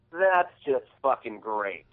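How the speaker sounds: slow, sarcastic drawn-out line; smug sarcasm. Retold or imitated. Driver sneering at stuck guy, slow sarcastic. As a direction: mimic the smug driver mocking him. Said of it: "and he goes".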